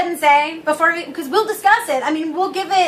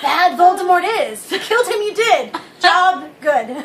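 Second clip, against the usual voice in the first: playful Yoda impression with a laugh; lightly voiced Yoda, inverted phrasing; mock Yoda, giggling; slower than usual. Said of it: "chose to be Yoda the entire time".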